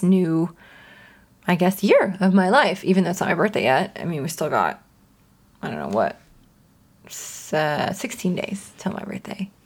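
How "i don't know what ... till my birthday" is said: soft whispered aside. Real, not acted. Host whispers the countdown to her birthday, hushed. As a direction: whisper it like a little secret.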